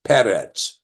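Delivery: peretz with the accent on the first eh syllable; peretz, slow, stress the first syllable. Shown as a demonstration. Teacher explains two segals, peretz stressed first syllable. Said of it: "It's on the panultimate".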